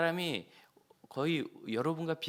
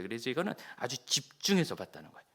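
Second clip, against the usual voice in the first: normal talking voice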